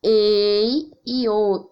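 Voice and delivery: ei e o drawn out slowly with open vowels. Shown as a demonstration. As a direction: stretch each open sound for the class. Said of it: "Que nem eu".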